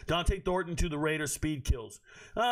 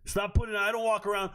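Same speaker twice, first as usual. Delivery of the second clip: usual speaking voice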